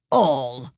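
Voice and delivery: "all" set apart and drawn out; great emphasis. A narrator's reading. King repeating himself to Alice, emphatic "all". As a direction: land firmly on a separate "all". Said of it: "repeated with great emphasis".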